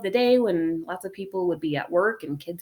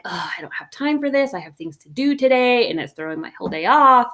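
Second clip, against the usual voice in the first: frustrated; 4 semitones higher, 4 dB louder than usual. Retold or imitated. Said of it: "feeling frustrated and rushed".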